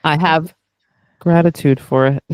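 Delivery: slick, dramatic trailer read; movie trailer voice. Pretend. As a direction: announce it like a film trailer. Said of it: "Oh, that was so slick".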